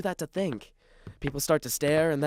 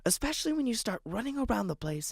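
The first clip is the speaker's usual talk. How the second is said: hushed scolding; 4 semitones higher, 5 dB quieter than usual. Acted.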